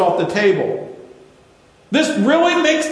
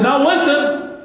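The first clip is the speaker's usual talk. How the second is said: Charles Stanley; 5 semitones higher, slower than usual. Retold or imitated. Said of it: "I said".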